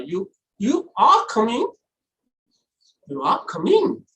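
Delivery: doubting question, rising high at the end. Shown as a demonstration. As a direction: query it as if unconvinced. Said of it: "It's a kind of doubt".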